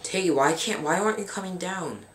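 high-pitched exasperated complaint. Real, not acted. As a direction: whine up high at a useless teammate. Exasperated at teammate in game.

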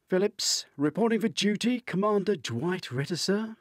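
high, loud, crisp military report; formal report. A narrator's reading. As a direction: snap off the report like a soldier to his commander. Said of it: "Kieran says formally".

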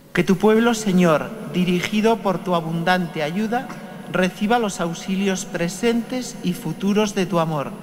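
rezo solemne del celebrante; oración litúrgica. Acted. Oración final de la misa. (oración solemne de la misa)

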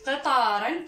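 قطارا pronounced qitaran; final vowelless nun. Shown as a demonstration. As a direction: close قطارا on a clearly sounded -an. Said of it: "وتنطق قطارا نون ساكنة".

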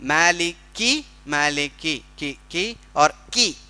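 मालिकी with the final की drawn out; vowel length contrast. Shown as a demonstration. Teacher shows the student a fine difference in vowel length. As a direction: stretch the की in मालिकी. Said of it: "में बहुत फ़र्क है".

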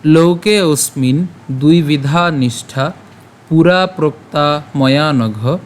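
slow recitation with drawn-out vowels; measured verse recitation. Shown as a demonstration. Teacher reads out today's shloka, measured verse recitation. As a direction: recite the shloka slowly, phrase by phrase.

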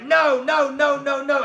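a string of loud, impatient no's; loud dismissive no's. Retold or imitated. Father turning down the yeshiva boys, loud and impatient. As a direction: wave each boy off loudly.

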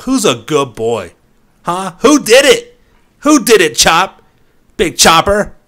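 sing-song praise like talking to a puppy; over-the-top baby talk to a dog; excited pet talk. Acted. Praising his dog character after finishing.

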